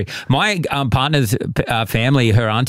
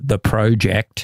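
put-on British accent; much slower than usual. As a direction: Project in a British accent, pʰɹɑʊdʒɛkt. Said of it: "quite British".

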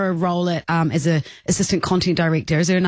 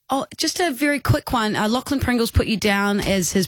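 put-on Kiwi accent; 3 semitones higher than usual. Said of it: "I kind of put on a, it's a Kiwi accent".

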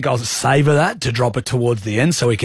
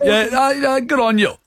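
high hammed-up bush farmer voice; hammed-up Aussie bushie, pitched up; broad bush accent; 11 semitones higher than usual. Shown as a demonstration. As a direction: play a broad country stock agent. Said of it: "A bit more bush".

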